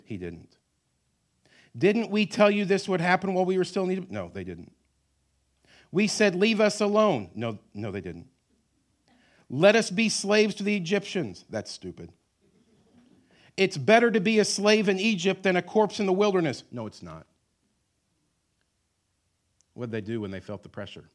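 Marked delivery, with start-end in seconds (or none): 1.8-4.1 high, loud accusation; whiny complaint. Retold or imitated. Israelites complaining. 5.9-7.3 high, loud accusation; whiny complaint. Retold or imitated. Israelites complaining. 9.5-11.5 high, loud accusation; whiny complaint. Retold or imitated. Israelites complaining. 13.5-16.6 high, loud accusation; whiny complaint. Retold or imitated. Israelites complaining.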